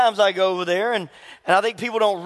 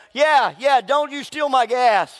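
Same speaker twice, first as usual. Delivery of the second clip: higher, insistent accusing voice; imitated yelling; 6 semitones higher, slower than usual. Car owner answering the man's denial, imitated yelling. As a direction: keep scolding like the angry owner. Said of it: "yells at me and says".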